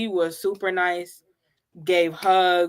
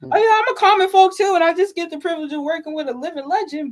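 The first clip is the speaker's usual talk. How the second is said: imitating humble dancer; 7 semitones higher, 3 dB louder, faster than usual. Imagined dancer voice.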